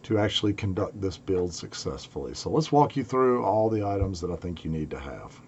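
hoarse from a cold; raspy, worn-out voice. Real, not acted. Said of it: "sorry about my raspy voice".

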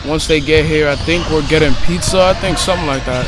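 loud over the noise of the gym; talking over noise. Real, not acted. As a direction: speak up so the camera catches it.

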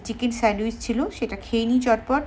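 speaking while biting food; talking through chewing; mouth full of sandwich. Real, not acted. Seen 1: Sandwich held in mouth biting 0.6–2.8; chewing closed-lipped afterward.

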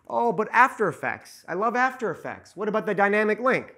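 high whiny mock of a Premiere fan. Video editor mocking After Effects fans, high mock voice.

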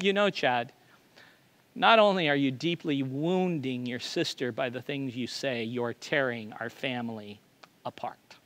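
a tired mother's weary rebuke; exhausted. Retold or imitated. Mother scolds teenage son for hurting sister, exhausted. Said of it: "with exhaustion in her voice".

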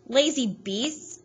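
slow, high scornful shout; angry shout. Acted. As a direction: spit it at the dogs. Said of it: "Hal shouted".

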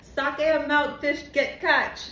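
slow try at a Caribbean accent; careful patois attempt. Shown as a demonstration. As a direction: sound it out slowly in patois. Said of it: "Say that one".

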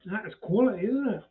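talking between crunchy bites; chewing while talking. Real, not acted. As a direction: mouth partly full. Seen 0: Ate piece just before; jaw working, holding scrap while talking.

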